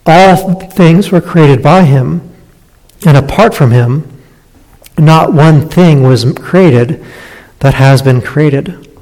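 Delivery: slow, deliberate scripture reading; measured reading of the verse; slow careful reading. Shown as a demonstration. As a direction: read it out slowly so each phrase lands. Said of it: "translates it this way".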